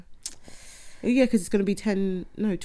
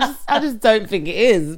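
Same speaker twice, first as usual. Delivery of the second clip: laughing imitation; 4 semitones higher, 4 dB louder than usual. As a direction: kid voice dissolving into laughter. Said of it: "It's kinda like".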